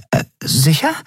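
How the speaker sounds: high, questioning voice; doubtful Nelen. A narrator's reading. Nelen doubting the code, high.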